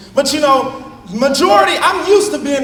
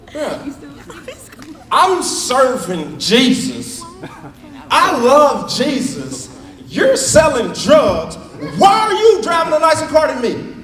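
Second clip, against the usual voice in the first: mock indignant rant; 3 semitones higher, slower than usual. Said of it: "I got mad".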